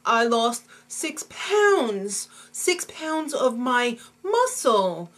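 slow, drawn-out mock distress; lightly voiced whiny plea; hammed-up pleading. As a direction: overact a desperate complaint, stretching key words. Jessie's hammy plea in sketch.

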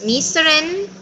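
AND cut down to just "n", A and D silent; "Mister 'n'", with the A and D of AND dropped; reduced and. Shown as a demonstration. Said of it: "no las pronunciamos, son mudas".

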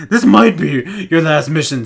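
might said with a clear m, slow and deliberate; corrected might. Real, not acted. Reading the game subtitle correctly after misreading might. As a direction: reads this might correctly, slowly. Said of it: "oh, I thought you said this night".

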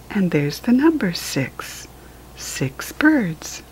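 hushed. Acted. Whispered counting to a child.

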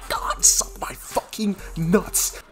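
loud start tumbling into a frenzy; real worked-up outburst. Real, not acted. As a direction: get carried away celebrating the play. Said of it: "I'm getting so worked up".

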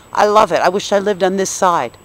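trembling slightly while speaking; steady voice with shaky moments. Real, not acted. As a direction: voice shaky with emotion. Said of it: "Sorry if I sound shaky".

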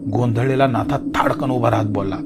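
ordinary delivery, nothing marked

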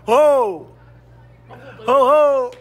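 short loud hoots at the screen; cheering shout. Real, not acted. Cheering during the match. (هتاف عالٍ)

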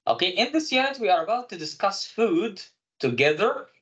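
slow, careful classroom English; slow teacher read. Shown as a demonstration. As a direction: read it out slowly for learners. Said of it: "وإن إحنا نتكلم".

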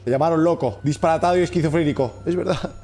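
tempting inner voice. Acted. Inner demon urging the bear to turn to mischief, lightly voiced. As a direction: lure him toward evil, calm and sly. Reads villain's dark whisper quest.

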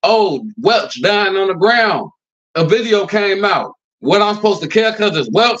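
mock dismissive quote. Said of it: "what if I said".

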